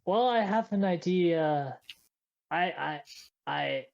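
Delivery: slow, hesitant start that stalls into stammering. Acted. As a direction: stumble over the first word, trailing into repeats. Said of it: "he sort of just stammers a".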